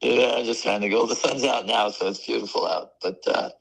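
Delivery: hoarse, cracking, losing the voice. Real, not acted. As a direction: voice cracking from allergies. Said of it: "You can hear it cracking".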